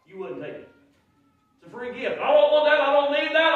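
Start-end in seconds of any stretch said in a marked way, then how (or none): 2.2-3.5 higher, louder huffy refusal; indignant refusal, loud and high; mock indignant refusal. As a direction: bark it back like an offended man. Voicing a refusing listener.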